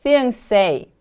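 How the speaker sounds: "Fiancé" with a stressed, falling SAY at the end; careful teacher's "Fiancé", weight on the final syllable; stress on last syllable. Shown as a demonstration. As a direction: model "Fiancé" as fi-an-SAY. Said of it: "The stress is on the last syllable".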